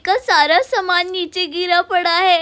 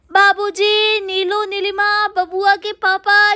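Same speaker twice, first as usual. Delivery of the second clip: calling the family. Acted. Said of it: "क्यों चिल्ला रही हो सुबह सुबह".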